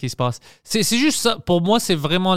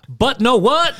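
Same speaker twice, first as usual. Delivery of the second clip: high, loud mocking exclamation; incredulous singsong mockery; mock literal translation; 9 semitones higher, 5 dB louder, slower than usual. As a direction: parody the French phrase in English. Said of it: "Comme ils, comme ils ont une".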